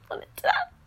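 indignant line flipped up high, mocking her old self; mock indignant squeak. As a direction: squeak it out in prim mock offence. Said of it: "I'd call you insane".

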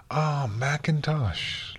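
slow, high, delighted greeting; lifted, drawn-out hail; beaming greeting. A narrator's reading. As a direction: draw it out with a beaming smile. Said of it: "Luna beamed at the huge stallion".

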